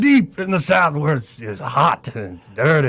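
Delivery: Southern colonel voice, leering double meaning; Colonel Angus. Retold or imitated. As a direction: purr it like an old plantation colonel. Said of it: "he's Colonel Angus".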